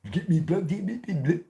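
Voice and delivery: high, mocking imitation of South London roadman talk; mock South London slang. Mocking South London youths he dislikes, in a high roadman accent. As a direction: sneer it out as a London roadman parody. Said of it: "fucking idiots from South London".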